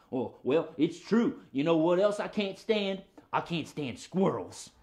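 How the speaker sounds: grumbling dog character voice; stubborn puppet dog. Pretend. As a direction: defend the grudge as a cranky dog.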